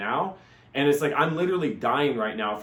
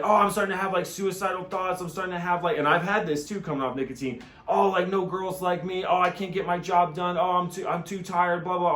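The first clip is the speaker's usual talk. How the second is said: whiny inner voice; 5 semitones higher than usual. Retold or imitated. Mocking addict's withdrawal thoughts.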